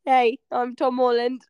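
hint of a put-on British accent; Tom Holland. Cohost introducing herself as Spider-Man actor, put-on British accent. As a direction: introduce yourself in mock British. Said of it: "I don't even have this accent".

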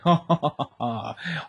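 mock "ha ha" laugh, falling away; imitated laugh. Uncovered prankster to the one who caught him, mock laugh. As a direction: act out a caught man's laugh. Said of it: "uncovered him and was like".

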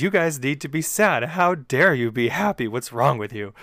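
playful re-enacted indignation; mock anger. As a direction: scold them in mock outrage. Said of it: "being so angry at every single character".

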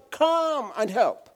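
high, drawn-out mock cry for help; retold shout. Preacher retells wife finding husband with rope, imitated shout. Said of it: "wife shouted".

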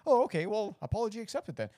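high, grudging, snippy mock voice; sarcastic sulky acceptance, hammed up; petty, pouting parody of a reluctant apology; mock huffy acceptance. Mocking petty TV characters.

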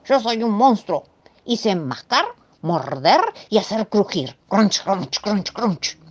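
a monster stating the obvious; simple-minded monster. Acted. Monster telling Mrs Moe all it knows is chewing, lightly voiced.

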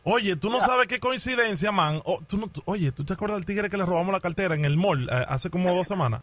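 dropped to a near murmur; hushed conspiratorial. Acted. Prankster lowers voice to share a secret. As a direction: tell him the secret softly.

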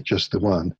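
a hint of a ghost calling from the water; haunting voice. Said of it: "the ghostly voice comes from the lake".

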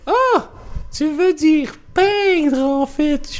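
voix très aiguë et lente, condescendante; Français pédant. Retold or imitated. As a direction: corriger avec un air snob. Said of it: "Il fait". (un Français corrige un Québécois, aigu et hautain)

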